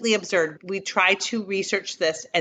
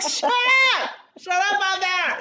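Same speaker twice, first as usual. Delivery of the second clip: high-pitched, strained holler; comic retold shouting at noisy kids; mock yelling; 11 semitones higher than usual. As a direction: yell it out like a fed-up teacher. Retold yelling at screaming kid.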